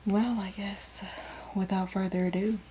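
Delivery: whispered sign-off. Acted. Host winding down the show to her cohost, whispering. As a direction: hush it like a secret before wrapping up. Closing the episode.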